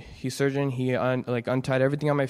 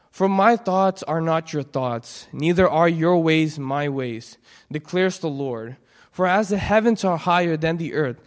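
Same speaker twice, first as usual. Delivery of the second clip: scripture reading. Real, not acted. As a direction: read the verse with gravity. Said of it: "come with me to Isaiah fifty-five".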